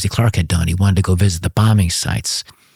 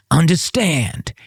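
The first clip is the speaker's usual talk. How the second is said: "Understand?" said higher and very slowly, falling at the end, as a mock-secretive check; talking in code; 7 semitones higher, much slower than usual. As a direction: stretch out "Understand?" to make sure the coded message landed. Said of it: "Talk to me in code".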